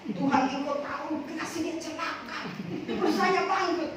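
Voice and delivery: slow, pointed prayer asking harm on the boss; mock cursing prayer. Mimicking a believer praying for the boss to suffer, slow and spiteful. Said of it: "Jangan kita tambah kutuk bos kita".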